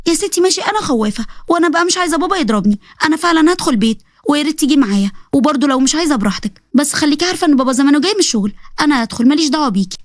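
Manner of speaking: put-on a frightened kid pulling her twin home; scared little girl. Girl urging her twin sister to come home, high child voice.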